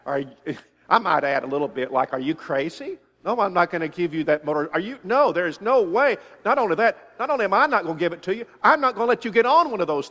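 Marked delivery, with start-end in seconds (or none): 2.1-6.2 firm, loud no, like a dad shutting it down; emphatic refusal. Retold or imitated. Father refusing his son's motorcycle request, emphatic and loud. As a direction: put your foot down hard on no way. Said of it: "it's gonna be emphatic".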